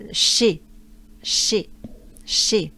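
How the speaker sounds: sh sound of French che; French she. Shown as a demonstration. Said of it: "we're looking for the sound".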